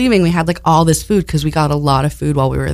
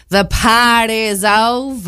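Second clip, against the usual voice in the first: deadpan announcement; 5 semitones higher, much slower than usual. Retold or imitated. Quoting staff announcing party end.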